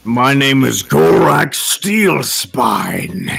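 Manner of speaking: slow dwarf warrior voice; drawn-out heroic dwarf introduction; Taserface voice. Acted. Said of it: "my voice is based off of Laser or Taserface".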